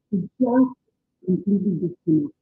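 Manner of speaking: muffled, like through a wall. Real, not acted. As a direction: sound muffled, mic far off. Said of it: "you sound muffled".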